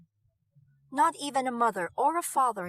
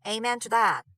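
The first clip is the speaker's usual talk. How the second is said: exaggerated drawl; 5 dB louder than usual. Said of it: "in an exaggerated drawl".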